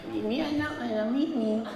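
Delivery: put-on soft cooing baby talk. Filipino couple cooing pet names, soft baby talk. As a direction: coo the pet names sweetly. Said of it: "Pilipino lang gumagawa niyan".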